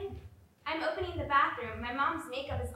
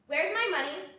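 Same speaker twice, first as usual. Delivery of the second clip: a raised, higher angry challenge; angry demand; 4 semitones higher, 5 dB louder than usual. Acted. Bursting in on a friend over missing cash, angry. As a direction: confront him, louder and higher.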